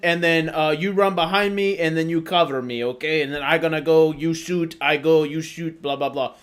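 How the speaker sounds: put-on Hungarian-accented English, choppy game plan. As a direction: imitate a Hungarian friend giving instructions. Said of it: "so this is his accent".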